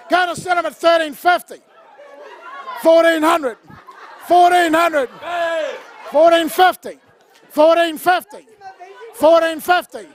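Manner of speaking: rapid auction chant, calling bids; auctioneer calling. Acted. Runs the charity auction.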